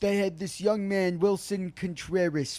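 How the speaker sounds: high, loud bad Scottish accent; badly faked Scottish old-timer reminiscing; terrible Scottish impression. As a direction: tell it in hammed-up Scottish. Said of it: "that was also a terrible Scottish impression".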